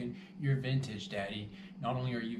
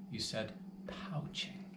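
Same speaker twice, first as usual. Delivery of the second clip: under the breath; 6 dB quieter, slower than usual. Real, not acted. Scolding himself over the mistake.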